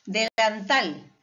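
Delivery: Delantal slowly, weight on TAL; stress on last syllable. Shown as a demonstration. Teacher listing aguda examples, Delantal stressed on TAL. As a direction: stretch out TAL at the end of Delantal. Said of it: "también en la última sílaba".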